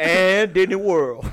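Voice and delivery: slow mock Cajun drawl; Cajun guy voice. Host completing the list of attractions, mock Cajun guy voice. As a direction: stretch it out in a comic Cajun accent. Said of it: "like, Cajun guy voice".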